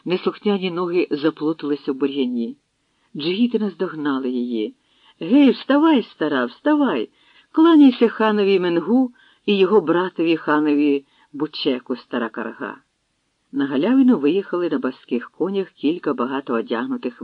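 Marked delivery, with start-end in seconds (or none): 5.2-12.8 rough shout to get up, dropping at the end; shouting order. Acted. Warriors shout at the old woman to rise, loud rough order. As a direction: bark her up off the ground.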